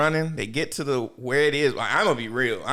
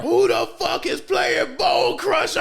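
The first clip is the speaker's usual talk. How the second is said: mock roaring shout; 13 semitones higher, slower than usual. Monster in the background, high slow roaring shout. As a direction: bellow it like a monster roaring from afar. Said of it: "You just hear this nigga".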